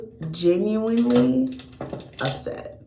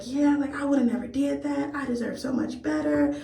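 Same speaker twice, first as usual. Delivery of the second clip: higher mock whine of a ranting man; 6 semitones higher, 3 dB quieter than usual. Narrator mocking her date's higher whiny rant. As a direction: parody his indignant rant. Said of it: "as he's ranting and raving".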